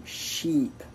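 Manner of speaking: sheep with a held long I; long vowel. Shown as a demonstration. Teacher showing how long to hold it, sheep with long I. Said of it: "une voyelle longue que tu dois dire".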